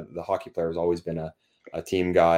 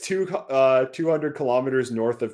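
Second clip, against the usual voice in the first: meme read-out in a Canadian accent; higher-pitched Canadian accent, haltingly started; 4 semitones higher, 3 dB louder than usual. Shown as a demonstration. Reading a meme on request, in a Canadian accent. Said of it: "do the whole meme in your accent".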